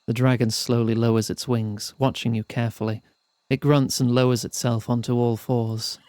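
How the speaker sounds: measured, evenly paced storyteller; story narration. A narrator's reading. Narrator telling players of a perilous mountain climb, storytelling. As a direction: read it out like an audiobook narrator. Reads the game's narration aloud.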